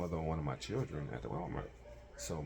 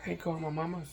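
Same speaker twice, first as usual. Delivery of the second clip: mock whiny girlfriend; 11 semitones higher, 4 dB louder, faster than usual. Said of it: "So she's like".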